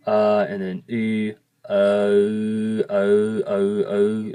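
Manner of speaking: uh, then oo, slowly blending into oh, oh; careful vowel demo; Hmong W vowel. Shown as a demonstration. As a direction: demonstrate the blend step by step. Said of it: "combining the two".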